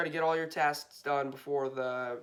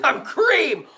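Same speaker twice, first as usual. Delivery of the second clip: high laughing shout; 11 semitones higher, 12 dB louder than usual. Real, not acted. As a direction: laugh through the name. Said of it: "I can't say that with a straight face".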